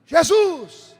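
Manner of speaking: sudden loud high cry of Jesus; shouted name. Retold or imitated. Wife at a night prayer shouting to God, loud cry. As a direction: belt it out like a revival scream. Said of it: "Ela começou a gritar".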